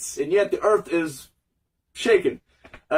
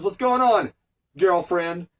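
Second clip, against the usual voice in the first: sassy delivery. Retold or imitated. Jax teasing Raiden, lightly imitated sassy drawl. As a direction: tease Raiden with a sassy "girlfriend". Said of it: "he'll say it sassy".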